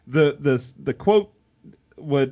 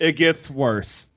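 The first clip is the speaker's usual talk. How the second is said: laughing through it; slower than usual. Retold or imitated. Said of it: "And then Eric goes".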